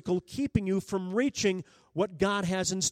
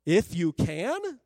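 incredulous echo; slower than usual. Retold or imitated. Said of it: "notice Jesus' response".

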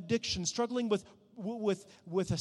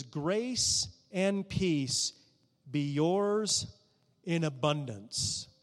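slow scripture reading; 2 semitones lower, much slower than usual. Shown as a demonstration. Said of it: "It says".

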